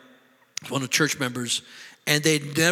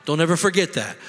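mildly indignant scolding, a little louder; stern rebuke; 3 dB louder than usual. Acted. God answering self-pitying Elijah, in a stern rebuke. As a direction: put him firmly in his place.

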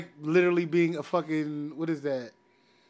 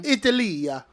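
Italia with Italian vowels, stress on the second syllable; mock Italian saying of Italia; Italian pronunciation; slower than usual. Shown as a demonstration. Correcting a friend, says Italia the Italian way. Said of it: "Ital-, Italia".

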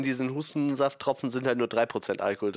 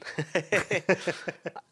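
laughing through pain; 7 semitones higher than usual. Real, not acted. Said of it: "Hör auf, mich zum Lachen zu bringen, da muss ich husten".

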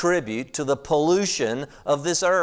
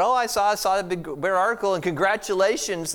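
eager congratulations; 5 semitones higher than usual. Retold or imitated. Cheerful clueless compliment retold.

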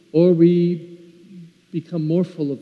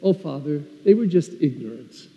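gentle, forgiving reply; mildly voiced tender reassurance; very kindly. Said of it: "very kindly just said".

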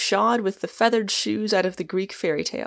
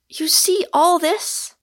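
slow, high, earnest question; grand sincerity; 10 semitones higher, 6 dB louder, slower than usual. A narrator's reading. Rosamond questioning Michael after his speech, grandly sincere. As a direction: ask it slowly and sincerely. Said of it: "with a grand sincerity".

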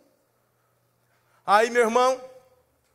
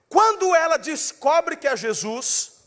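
ordinary talk, nothing marked

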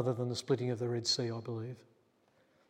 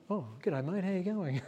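pretend phone chat; 5 semitones higher than usual. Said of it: "pretend you're on the phone".

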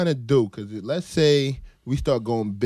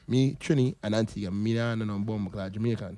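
mock Caribbean accent; 2 semitones lower, 4 dB quieter than usual. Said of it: "But you try to sound Jamaican".

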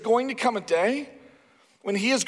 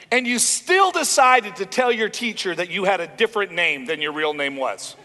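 stern dad; 5 dB louder than usual. Retold or imitated. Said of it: "I talk to my kids, and I go".

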